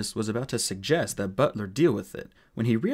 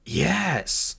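raised, drawn-out yelp; howl of pain; 5 semitones higher than usual. Acted. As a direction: howl it from the gut. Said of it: "howled the dwarf".

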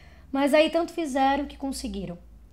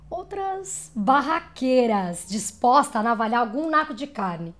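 louder, punchy and raised; brawling, feisty; 5 dB louder than usual. Acted. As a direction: throw it out like a brawler. Voice paints the brawling women.

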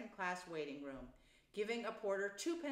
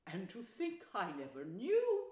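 dreamy wonder; 4 dB louder than usual. Acted. Toad goes on in raptures.

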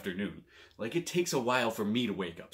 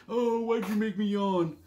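playful complaint; 10 semitones higher than usual. Retold or imitated. Mock complaint about contagious yawn.

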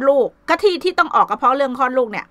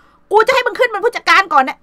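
retold scolding; 8 semitones higher than usual. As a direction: snap at the daughter again as she did then. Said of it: "เราก็ด่าเลยบอก".

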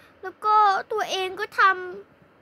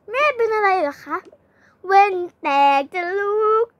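ordinary talk

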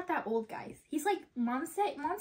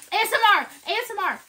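high, loud ASMR announcement; playful high-pitched shout; loud mock ASMR; 6 semitones higher, 10 dB louder, faster than usual. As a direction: call it out loudly, playfully. Showing off crunch for viewers.

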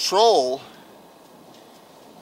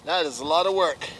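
out of breath; 5 dB quieter, faster than usual. Real, not acted. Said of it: "Trying to catch my breath".

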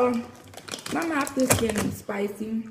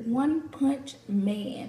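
slow repeat; much slower than usual. Shown as a demonstration.

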